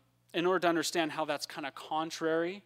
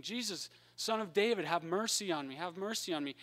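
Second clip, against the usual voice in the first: mild mock cry for help, raised pitch without real volume; retold scream; 4 semitones higher than usual. Blind man calls to Jesus through the crowd, mild retold scream. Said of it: "he starts screaming".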